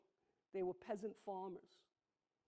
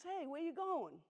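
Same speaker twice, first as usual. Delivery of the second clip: higher, lightly voiced sheep asking; a curious little sheep, pitched up; sheep's voice; 8 semitones higher than usual. Sheep voiced in bedtime story.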